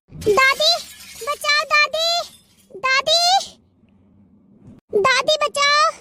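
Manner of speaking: pained, drawn-out cries to grandma; pleading for help. Acted. Girl in pain begs grandmother to save her, pleading. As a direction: beg to be rescued, voice lifted.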